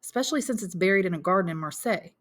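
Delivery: son briskly taking stock; lightly voiced young Albert.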